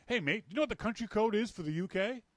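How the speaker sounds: lightly put-on British accent, quick; a passing hint of a British stranger. Stranger asking the country code, lightly British. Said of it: "in a British accent".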